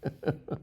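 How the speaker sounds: short breathy disbelieving laugh; a quick unvoiced chuckle; real laugh. Real, not acted. Reacting to contradictory chatbot answer.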